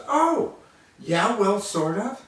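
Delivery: high mocking echo. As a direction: throw his words back at him. Waitress mocks his excuse.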